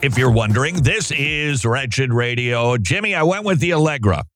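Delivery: stuffy blocked nose from allergies; clothespin on nose. Real, not acted. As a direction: talk like a clothespin is on your nose. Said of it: "I sound pretty much like I've got a clothespin on my nose".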